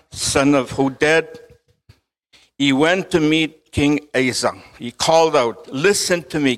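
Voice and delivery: measured, projected Bible reading; deliberate reading aloud with pauses between phrases; scripture reading. Acted. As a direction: read it out to a congregation, phrase by phrase.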